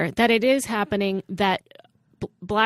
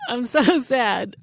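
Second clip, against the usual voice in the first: slow, giggling through the words; laughing mock sadness; 3 semitones higher, slower than usual. Real, not acted. Host jokes he is sad while laughing, slowly.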